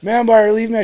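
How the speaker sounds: high, loud sounding-off; loud recruit callout. Retold or imitated. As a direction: imitate a recruit belting out the formal response. Retold recruit sounding off louder.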